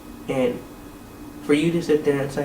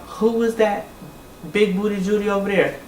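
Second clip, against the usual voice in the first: higher, teasing leer of a man ogling; mocking Young Hollywood; 5 semitones higher than usual. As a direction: mimic his cheeky catcall, lightly voiced. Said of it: "you hear Young Hollywood talk about".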